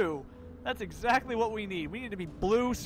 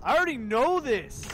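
louder, already stressed; annoyed; 5 semitones higher, 6 dB louder than usual. Real, not acted. Gamer snapping back at the game's message, annoyed. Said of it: "repeated louder".

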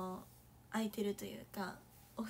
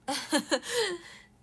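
bright burst of giggling; giggle; 6 semitones higher, 8 dB louder than usual. Real, not acted. Laughing at herself while gushing over song lyrics. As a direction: giggle at your own gushing.

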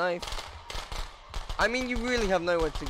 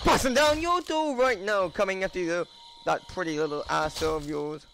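menacing taunt; 2 semitones higher, 3 dB louder than usual. Pretend. Taunting as the killer.

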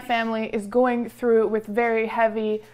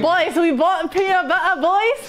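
excited announcing; 6 semitones higher than usual. Real, not acted. Announcing purchase to roommates.

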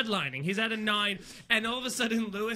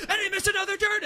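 exasperated; 10 semitones higher, faster than usual. Retold or imitated. Retold yelling from the car.

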